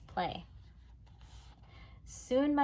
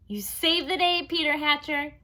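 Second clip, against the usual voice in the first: higher, louder, gushing thanks; gushing Janet; 8 semitones higher, 8 dB louder than usual. Acted. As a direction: praise him sweetly. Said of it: "she said".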